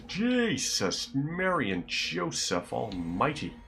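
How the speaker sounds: high, drawn-out exclamation sliding down; exasperated exclamation. Real, not acted. Player exclaims as his move didn't work, exasperated. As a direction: stretch the oath out, pitch leaping up high.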